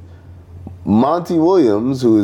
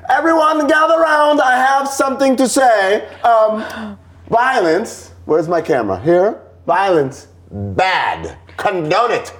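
high, grand mock announcement to a crowd; pompous official statement; 9 semitones higher than usual. Podcast host mocking a team's formal statement, pompous high announcer voice. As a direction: ham up a stiff team spokesman reading a statement. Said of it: "when you say a statement like".

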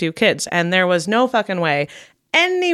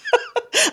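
high burst of laughter. Real, not acted. Laughing at host's joke.

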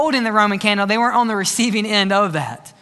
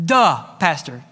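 mock God's reply; 5 semitones lower than usual. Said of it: "And God says".

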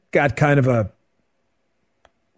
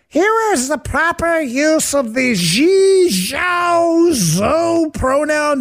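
higher, slow mocking read of a course script; mock instructional voice, pitched up and drawn out; mocking training-course voice; 13 semitones higher, much slower than usual. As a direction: parody a corporate training narrator, higher and slower.

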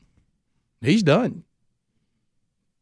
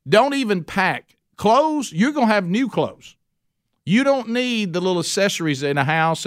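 raised, eager promise of everything; a generous king hurrying them along; excited Pharaoh. Acted. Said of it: "Pharaoh's like".

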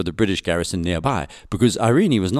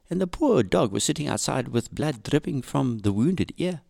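reading a diary; 6 semitones higher than usual. Acted. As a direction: read as her shocked diary entry. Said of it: "she writes in her diary".

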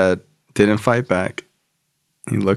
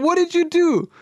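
much higher put-on voice of a blunt sponsor; tough sponsor voice. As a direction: bark out the tough-love lecture.

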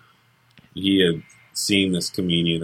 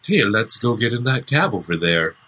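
mock dubbed leading man, higher than usual; dubbed movie voice; 4 semitones higher than usual. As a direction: parody a badly matched voice-over for a huge bodybuilder. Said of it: "he doesn't do his own lines".

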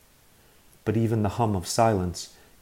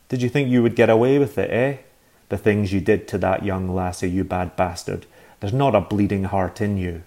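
berating rant; 5 dB louder than usual. Acted. Agnes berating the man.

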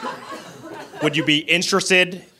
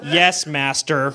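slow, obedient servant reply; mindless servant voice; much slower than usual. Acted. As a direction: answer like a devoted minion.

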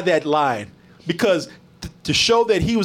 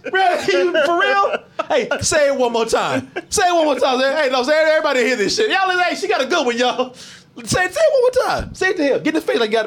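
mock outrage; 9 semitones higher than usual. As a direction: hype the whole room up to hear the line. Mock calling out a crowd.

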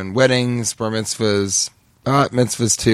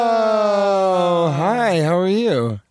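squeaky hello; 8 semitones higher, much slower than usual. Acted. Landing after jumping the wall.

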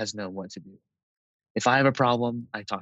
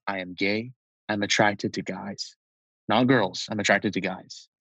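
imitating a firm, unemotional declaration; bold, matter-of-fact. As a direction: state it squarely, as simple fact. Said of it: "said it very boldly and very, like, matter-of-factly".

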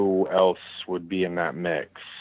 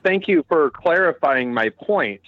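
sarcastic; 5 semitones higher than usual. Real, not acted. Sarcastic reply in debate.

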